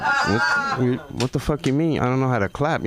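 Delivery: high, incredulous what; mock offended at the heckle; indignant disbelief. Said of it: "I'm like".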